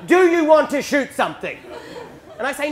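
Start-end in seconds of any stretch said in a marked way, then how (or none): 0.1-1.6 loud, higher-pitched exasperation; mock angry dad. Dad to son who won't shoot, angry. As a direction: act out an annoyed father losing patience, loud. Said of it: "he gets really angry".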